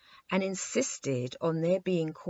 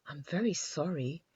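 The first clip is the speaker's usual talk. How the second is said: soft, sorry little king; apologetic; 5 dB quieter than usual. A narrator's reading. The king apologizes to Eyebright, softly. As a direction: say it meekly apologizing. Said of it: "replied His Majesty apologetically".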